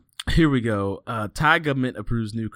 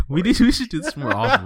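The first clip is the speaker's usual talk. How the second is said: laughing; 11 semitones higher, 5 dB louder than usual. Real, not acted. Laughing after accent bit.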